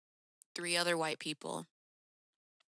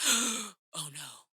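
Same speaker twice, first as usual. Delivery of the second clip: dismayed crowd. Retold or imitated. Crowd reacting to the fan on stage, hushed mock dismay. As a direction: let it sink away after the gasp. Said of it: "kind of an audible gasp from the entire crowd".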